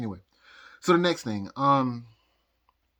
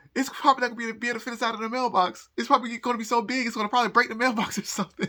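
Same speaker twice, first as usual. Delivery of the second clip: much higher, freaking-out panicked voice. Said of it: "I was, like, freaking out".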